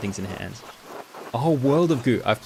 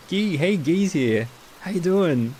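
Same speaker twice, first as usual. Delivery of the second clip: high, loud, drawn-out hello; excited greeting; 8 semitones higher, 5 dB louder, much slower than usual. Real, not acted. Streamer welcoming a regular into chat, excited and loud. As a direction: greet them with a big, high, delighted call.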